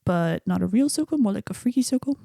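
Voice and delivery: put-on imperfect New Zealand accent; amateur New Zealand accent for a movie quote; Korg. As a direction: attempt a New Zealand accent, lightly imitated. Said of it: "work on my New Zealand accent".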